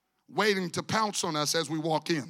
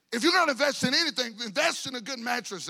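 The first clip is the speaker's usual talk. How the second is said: fast, higher, hammed-up sales pitch; mocking the salesman; 5 semitones higher, 3 dB louder than usual. Preacher mocking a mattress salesman's pitch, fast hammed-up. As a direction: parrot the salesman's line in mockery.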